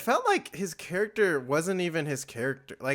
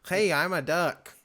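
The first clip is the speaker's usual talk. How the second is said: duck voice. Retold or imitated. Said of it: "I can do a Daffy Duck voice".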